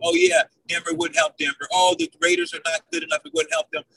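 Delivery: low, dismissive mimic of the doubters; mocking doubters. Host mocks what doubters say about Rodgers, low and scoffing. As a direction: sneer out the critics' excuses. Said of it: "And you people say".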